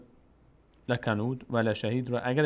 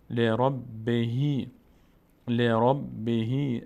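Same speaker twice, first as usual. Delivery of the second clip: syllables drawn out one by one; slow recitation drill; much slower than usual. Shown as a demonstration. Teacher drilling the student syllable by syllable, slowly. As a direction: spell the word out slowly, chanting. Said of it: "teacher spells the recitation out".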